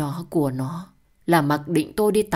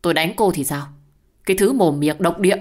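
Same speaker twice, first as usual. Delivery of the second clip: furious husband; 2 semitones higher, 5 dB louder, faster than usual. Acted. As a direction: bark it at her with contempt. Husband yells at his wife.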